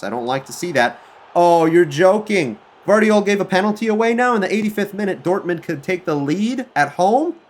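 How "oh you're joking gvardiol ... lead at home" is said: high, loud disbelief at a late penalty; loud, pitched-up frustration; exasperated outburst. Real, not acted. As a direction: cry out that this can't be happening.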